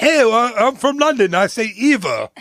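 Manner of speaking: badly faked London Cockney accent; mock Cockney accent, said in fun; bad British accent. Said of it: "That's a terrible British accent".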